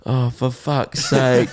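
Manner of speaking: very slow, drawn-out groan of exasperation; fed up, dragging it out; exasperated. Retold or imitated. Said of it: "at the meet and greet going".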